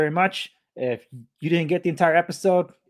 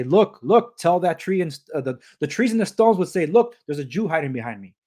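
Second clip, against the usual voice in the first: raised, louder voice for a retold quote; lightly voiced urgent call to look; acted-out calling; 3 semitones higher, 4 dB louder than usual. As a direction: call it out as if pointing someone out. Acts out end-time quotes of Jesus, trees.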